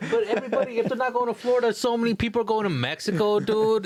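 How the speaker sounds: high, laughing voice through the words; laughing while talking. Real, not acted. Laughing at his friend's joke, talking through laughter. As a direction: giggle the words out.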